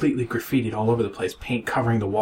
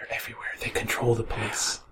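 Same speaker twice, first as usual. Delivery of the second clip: hushed paranoid; 6 dB quieter than usual. Pretend. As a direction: hush it like a paranoid insider. Mock paranoid conspiracy aside.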